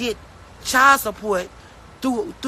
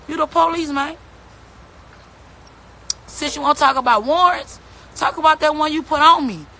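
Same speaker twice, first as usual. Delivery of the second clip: raised pitch and louder, jabbing at him over each point; heated rant; 3 semitones higher, 3 dB louder than usual. Real, not acted. Mother ranting at the father over his warrant, heated and loud. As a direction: call him out, voice climbing and hard.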